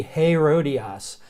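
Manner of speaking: Herodias with a light H, hay-roh-DEE-ahs; breathed H onset. Shown as a demonstration. Teacher explaining the accent, adding an H to Herodias. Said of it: "gives it sort of an H".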